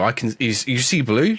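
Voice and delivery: normal talking voice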